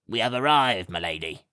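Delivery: a hint of a fawning servant; servant Gawk announcing. A narrator's reading. Chauffeur Gawk tells his lady they have arrived, lightly voiced. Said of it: "he said".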